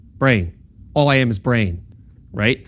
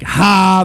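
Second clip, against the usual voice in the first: mock laugh; 6 semitones higher, 5 dB louder than usual. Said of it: "Not like".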